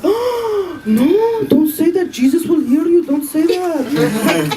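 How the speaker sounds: high, pleading mock horror; mock horrified aunts. Aunts begging her not to say it aloud, mock horrified. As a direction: gasp as if she'd sinned, pleading.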